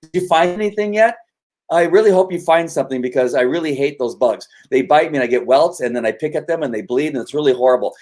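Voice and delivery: needling questions in a put-on high voice; pestering bystander. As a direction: play a chatty onlooker pestering a dog handler. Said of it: "and I would kinda like".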